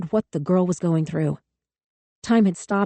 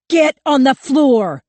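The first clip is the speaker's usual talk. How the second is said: loud, higher, slow and punched; frantic slow shout; 8 semitones higher, 8 dB louder, slower than usual. A narrator's reading. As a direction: bark each word out in panic. Panicked cop screaming.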